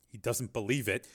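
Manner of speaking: soft, terse report. Acted. Agent updates Steele by radio, tersely. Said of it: "Sharp said tersely".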